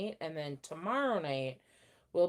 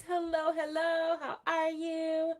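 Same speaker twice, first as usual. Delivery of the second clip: bright greeting; 10 semitones higher, 6 dB louder, slower than usual. Real, not acted. Greeting a newcomer on stream.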